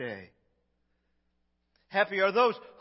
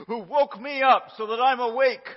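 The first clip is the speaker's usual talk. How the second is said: laughing mock grumble; 5 semitones higher, 10 dB louder than usual. Mock spouse complaint, laughing.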